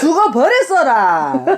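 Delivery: slow, amused Jeolla accent; Jeolla dialect. Shown as a demonstration. Mother adds a Jeolla ending for her daughter, slow laughing Jeolla dialect. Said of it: "전라도는 그렇게 하더라".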